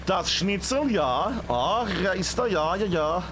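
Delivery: put-on light joking German accent. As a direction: play a hammy German accent. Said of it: "I'm doing a German accent there".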